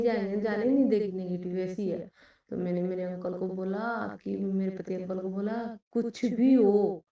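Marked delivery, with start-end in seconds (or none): 5.9-7.0 slow, drawn-out retold demand; irritable, tearful insistence. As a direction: mildly re-enact a stubborn, upset plea. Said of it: "रोने जैसी, चिड़चिड़ी जैसी हो गई, गुस्सा करने लगी".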